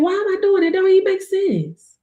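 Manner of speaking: high, puzzled inner voice; confused self. Pretend. Asking herself why she keeps going, high puzzled voice. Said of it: "You're gonna be like".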